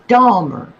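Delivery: Dahmer repeated with a clear D; Dahmer, "DAH-mer", said as a correction; careful pronunciation. Shown as a demonstration. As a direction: teach the word Dahmer, D first. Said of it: "D A".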